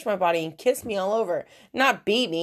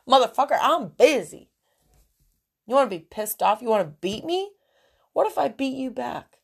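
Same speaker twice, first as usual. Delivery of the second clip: mad rant. Real, not acted. To her absent boyfriend, a real angry defiant rant. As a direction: square up and dare him to try it. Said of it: "I'm just mad".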